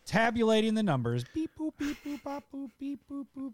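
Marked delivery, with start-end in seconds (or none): 1.3-3.5 high robotic beep-boop chant. Pretend. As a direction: beep like a toy robot computing. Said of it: "We have a real robot running these numbers".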